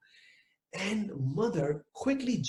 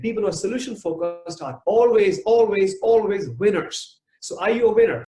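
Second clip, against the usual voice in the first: rousing shout; 5 semitones higher, 8 dB louder than usual. Acted. Rousing the audience to a climax.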